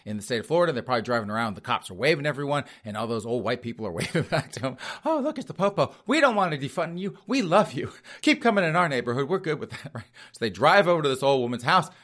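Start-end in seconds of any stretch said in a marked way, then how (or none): 5.0-9.9 lightly higher, sweet and chirpy; cheery old folks. Retold or imitated. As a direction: greet the cops like delighted retirees. Old residents greeting police.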